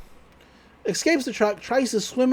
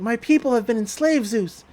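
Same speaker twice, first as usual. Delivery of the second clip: higher, pleading put-on toy voice; the duck voice; 4 semitones higher than usual. Toy duck begging for freedom, higher put-on voice. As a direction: plead as a mock-solemn inflatable duck. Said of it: "they're doing the, the voice".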